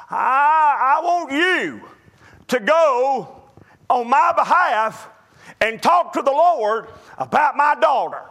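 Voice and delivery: father begging Jesus to help his dying daughter, tearful plea; pleading father. Retold or imitated. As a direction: beg for your daughter with a catch in the voice.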